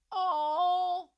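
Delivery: high, loud "aw"; cooing. Real, not acted. Fan melting at the sweet puppy flashback, high cooing. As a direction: coo it loudly, pitched right up.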